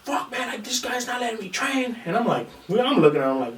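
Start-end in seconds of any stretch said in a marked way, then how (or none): 0.0-2.0 high, softer imitation of a whining complainer; mock whining. Big opponent complains to the coach, high mock whine. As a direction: whine it high, mocking the sore loser.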